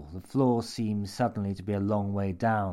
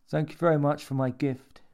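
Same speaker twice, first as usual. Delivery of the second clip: put-on childlike voice; 6 semitones higher, 3 dB louder than usual. A narrator's reading.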